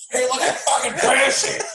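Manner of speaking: high-pitched hammed-up shout; put-on high, strained-up outburst; mock dad yell. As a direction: yell it like a raging movie dad. Acts out the dad's yelling.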